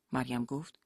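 ordinary talk

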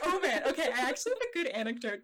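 fast, laughing eagerness. Real, not acted. Eager to share an Alan Cumming anecdote, fast and laughing. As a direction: rush it out through laughter.

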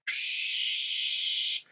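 hushed shh; whispered shushing. Retold or imitated.

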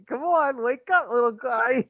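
high mock coaxing voice; coaxing baby talk. Wife coaxing a limp partner, high mock coaxing. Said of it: "they just keep doing it".

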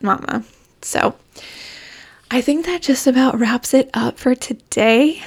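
breathless, winded speech; out of breath. Real, not acted. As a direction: talk while short of breath. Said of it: "my out of breath voice".

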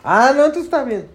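high, laughing through the words; laughing hard. Real, not acted. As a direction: crack up mid-sentence. (riendo a carcajadas)

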